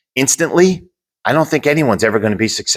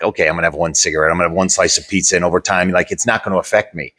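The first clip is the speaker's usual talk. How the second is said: careless self-talk; 4 semitones lower, faster than usual. Retold or imitated. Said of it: "we have the mindset, like".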